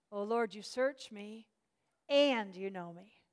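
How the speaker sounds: slow, lean into "and you know me"; stress on and. Shown as a demonstration. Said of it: "I'll stress different words".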